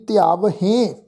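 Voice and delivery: ਧਿਆਵਹੇਂ ending in a separate nasal "hen"; nasalised ending. Shown as a demonstration. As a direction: sound the h, then nasalise the end of ਧਿਆਵਹੇਂ. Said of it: "ਨਾਲ ਬਿੰਦੀ ਸਹਿਤ ਪਾਠ ਉਚਾਰਨ ਕਰਾਂਗੇ ਜੀ". (ਧਿਆਵਹੇਂ, ਹਾਹੇ ਨਾਲ ਬਿੰਦੀ ਸਹਿਤ)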